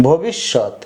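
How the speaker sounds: "ভবিষ্যৎ" as bhobishshot, low and falling; sh pronunciation. Shown as a demonstration. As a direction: say "ভবিষ্যৎ" with a doubled sh. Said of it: "স এর মতো". (তালব্য শ দিয়ে "ভবিষ্যৎ")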